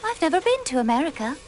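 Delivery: put-on quick, denial in an American accent. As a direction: slip into an American accent, fast. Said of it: "you say it with an American accent".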